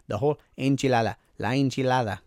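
playful Spanish accent on enchilada. Shown as a demonstration. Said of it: "my Spanish accent right there".

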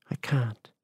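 a simple breathless whisper; just breathe the words out; said simply. A narrator's reading. Grieving man answering her plainly, in a whisper. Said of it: "he said simply".

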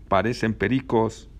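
mildly exasperated jibe at chatterers; annoyed scolding. Acted. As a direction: drag the words out in annoyance. Passenger at back scolds kids.

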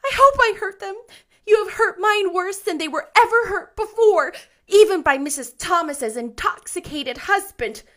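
put-on high, loud child's tirade; furious, tearful indignation, very high; vehement. A narrator's reading. Anne tells Rachel how much it hurt, vehement. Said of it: "she repeated vehemently".

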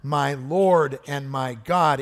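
slow, weighty confession; slow heartfelt cry. Retold or imitated. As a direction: lean into each word slowly. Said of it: "Thomas cries out".

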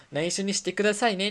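a hint of a cute shop clerk, finger to her lips; 指を唇に当てる店員の、控えめにあざとい声; coy clerk. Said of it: "人差し指を唇の前に持ってきて".

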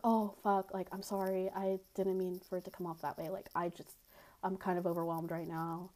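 hushed, overwhelmed sorry; quiet apology. Retold or imitated. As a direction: say sorry under your breath.

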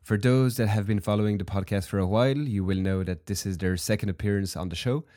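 hoarse voice from a heavy cold; sick voice. Real, not acted. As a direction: talk through a stuffy, sick throat. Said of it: "you can probably hear that in my voice".

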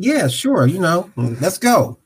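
bright, high casual yes to hide nerves; feigned confidence. Retold or imitated. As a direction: fake it like you golf all the time. Eager yes to another round.

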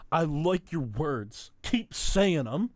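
slow, drawn-out quote, rising at the end; quoting the show. Retold or imitated. Quoting a favorite episode line to his cohost, slow and savoring. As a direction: savour each word slowly. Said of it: "This is a quote".

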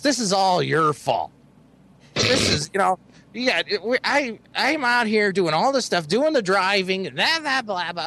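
a mild impression of her complaining tirade; mock angry. Friend mimics his date blaming him, mock angry. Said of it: "she's getting more angry".

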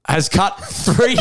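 reading through a suppressed giggle; stifled laugh. Real, not acted. Host reading the news to his mate, trying not to laugh. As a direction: fight back the laughter. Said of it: "I'm trying so hard not to".

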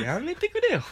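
laughing. Real, not acted. Laughing at friend's story.

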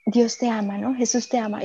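softly imitating a comforting priest; retold softly and gently; tender reassurance.

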